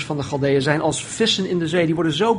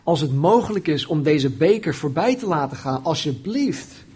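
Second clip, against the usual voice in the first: acted, insistent plea rising in pitch; pleading prayer; 2 semitones higher than usual. Jesus begging his Father for another way, pleading prayer. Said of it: "Even daarvoor bad hij".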